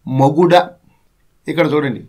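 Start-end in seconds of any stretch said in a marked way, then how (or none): 0.1-0.5 poem recitation. Acted.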